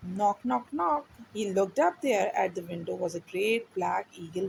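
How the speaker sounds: put-on slow, clear read-aloud for a child; story reading. A narrator's reading. Teacher reading a storybook to a child, slow and clear. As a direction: read each word slowly so the child can follow.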